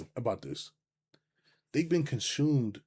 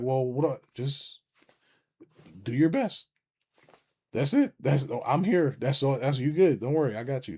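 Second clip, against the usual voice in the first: reassuring friend; 3 semitones higher, 4 dB louder than usual. Retold or imitated. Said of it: "to reassure them".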